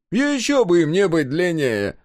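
high, loud, slow scoff; loud, drawn-out derision; amused scoff. A narrator's reading. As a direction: scoff at the obvious with a smirk. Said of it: "Ухмыл усмехнулся".

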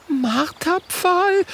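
very high, drawn-out disbelief; shocked echo. Acted. Mathilda wiederholt entsetzt. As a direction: gasp the word in horror. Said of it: "wiederholt Mathilda".

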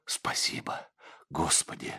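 whispered, breathless thanks; silent thanks. A narrator's reading. Monk thanks God silently, whispering. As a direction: thank God as if only in thought. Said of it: "мысленно поблагодарил он".

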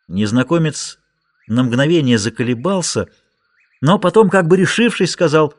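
usual speaking voice

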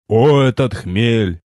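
put-on slow solemn proclamation, old voice; wise old sage. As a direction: declaim it grandly and slowly. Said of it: "Торжественность поугасла".

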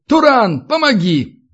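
high-pitched call for help. A narrator's reading. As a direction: call urgently to your mate. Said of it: "белорус потянул верёвку и крикнул". (окликает, зовёт на помощь)

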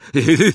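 loud, high cheeky laugh; loud gleeful laugh; commentator's laugh. Acted. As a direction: laugh at your own joke out loud. Lee laughs at own joke.

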